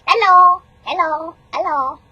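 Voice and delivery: silly talk. Real, not acted. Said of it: "you can't talk silly".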